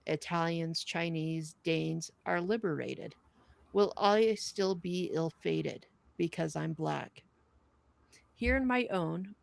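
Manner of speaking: measured, earnest reading of a wartime poem; poem recital. Acted. Reading the soldier's poem to the podcast audience, solemn and earnest. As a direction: recite each line with steady, grave weight. Reads a protest poem aloud.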